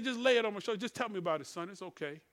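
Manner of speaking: gentle fatherly hush; soft and compassionate. Retold or imitated. Aging father comforting his son, soft and compassionate. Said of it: "he's become soft and compassionate".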